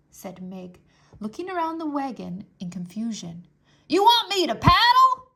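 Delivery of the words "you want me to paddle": put-on high, loud puzzled girl's voice; confused Mig. Mig mishearing the soldier, high and confused. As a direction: mishear it and ask, baffled.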